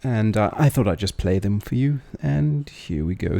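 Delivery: loud, urgent call to stop; calling out loudly. Real, not acted. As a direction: raise the voice to stop him leaving. Host stops guest from leaving.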